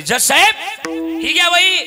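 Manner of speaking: high, loud appeal to the judge; calling to the judge. Acted. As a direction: call out loudly in court. Moneylender hands ledger to judge.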